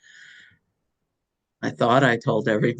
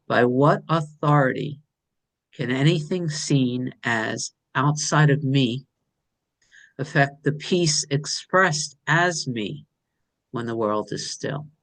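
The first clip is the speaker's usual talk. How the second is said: slow, hushed and savoring each phrase; slow reverent reading. Shown as a demonstration. Sharing her writing with the group, slow and reverent. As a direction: read it like a sacred verse, unhurried. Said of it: "I'm gonna say that again 'cause it feels really good".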